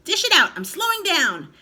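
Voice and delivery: very loud high screech; yell. A narrator's reading. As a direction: bellow it out greedily. Grandma demanding.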